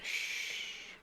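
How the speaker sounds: shushing. Acted. Hushing companion.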